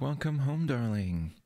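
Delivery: possessive lover greeting at the door; possessive partner voice. Acted. ASMR partner roleplay greeting.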